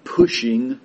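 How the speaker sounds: "pushing" said slowly and with weight; stress on pushing. Real, not acted. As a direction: lean on "pushing". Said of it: "I emphasize that word".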